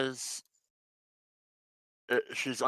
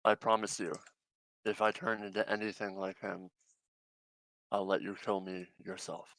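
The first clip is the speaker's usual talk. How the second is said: intense; 4 dB quieter than usual. Acted. Sabine vowing to a companion not to turn evil, intense. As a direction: promise gravely, pausing between clauses. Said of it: "that's pretty intense".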